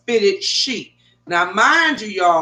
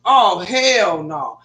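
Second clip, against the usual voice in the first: slow, disbelieving oh hell no; slow, exasperated hell no; drawn-out refusal; 3 semitones lower, much slower than usual. Retold or imitated. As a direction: stretch it out, fed up. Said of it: "I'm like".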